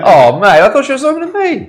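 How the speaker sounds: broad Kiwi, high and loud; Kiwi accent. Acted. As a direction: lay the Kiwi on thick. Exaggerated Kiwi reply.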